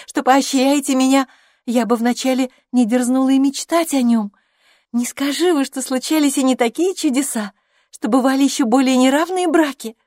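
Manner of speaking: put-on a chatty young woman spilling a secret; young Harriet, gossiping. A narrator's reading. Harriet voiced through the scene. (восторженная юная болтушка)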